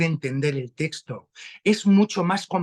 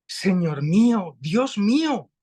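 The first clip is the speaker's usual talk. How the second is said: "Señor mío, Dios mío" cried out as a gasp of amazement, louder; astonished exclamation; 3 semitones higher, 4 dB louder than usual. Shown as a demonstration. Tomás at Jesús's feet, astonished exclamation. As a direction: say it as "oh my God!", not as a title. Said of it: "Vamos a leer la frase con otra entonación".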